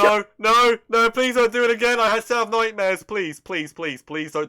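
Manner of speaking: high, loud pleading in dread; mock pleading. Real, not acted. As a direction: beg to be spared, half-joking. Begging not to watch soda stunt.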